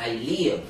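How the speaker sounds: live with the i held for half a beat; brief stretch. Shown as a demonstration. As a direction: draw out live slightly, under a second. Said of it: "আধা আলিফ টান হবে".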